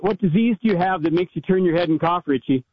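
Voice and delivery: ordinary talk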